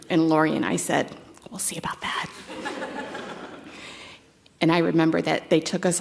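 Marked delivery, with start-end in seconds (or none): 1.5-2.3 sullen whisper. Retold or imitated. Teen defiantly answering mom. 2.3-4.0 soft breathy laugh. Real, not acted. Laughing after recalled retort.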